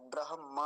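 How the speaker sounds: ब्रह्म with the m at the back, bra-ham-maa; correct pronunciation. Shown as a demonstration. Teacher explaining that म comes after, correct pronunciation. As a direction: put the maa last in ब्रह्म. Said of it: "म पीछे आता है".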